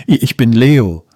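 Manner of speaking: Leo stammers out "I-, ich", a touch of nervous hesitation; stammering. Acted. Boy caught by the strict seagull, nervous mild stammer. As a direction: trip over the "I-" before the name. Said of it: "stotterte er".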